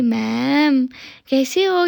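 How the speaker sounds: mock-sweet staff greeting; sweet, affectionate. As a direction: greet ma'am very lovingly, voice lifting. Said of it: "इतने प्यार से बोलती है ना".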